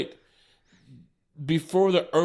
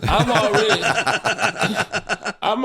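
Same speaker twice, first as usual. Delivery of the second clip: high, louder start through laughter; laughing; 6 semitones higher, 3 dB louder than usual. Real, not acted. Storyteller resuming as friends crack up, laughing. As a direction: break up while trying to go on.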